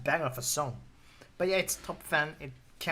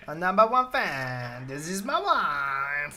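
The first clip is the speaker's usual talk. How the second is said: louder, hammed-up boast of being number one fan; mock proud boast; 6 dB louder, slower than usual. Bragging to viewers about top fan rank, mock proud. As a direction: puff up like a proud champion. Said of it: "hammed up boast".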